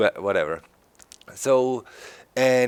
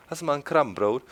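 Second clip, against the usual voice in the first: Plattdeutsch; 6 semitones higher, faster than usual. Shown as a demonstration. Demoing Plattdeutsch for viewers. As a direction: ask it in northern Plattdeutsch. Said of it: "There's also Plattdeutsch".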